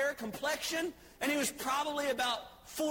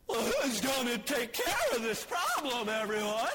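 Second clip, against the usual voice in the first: put-on young David shouting out to the crowd; raised voice, calling for a volunteer. Young David calls out to the soldiers, shouting.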